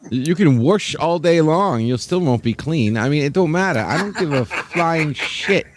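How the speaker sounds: laughing through the words. Real, not acted. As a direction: tease him while laughing. Teasing with a laugh.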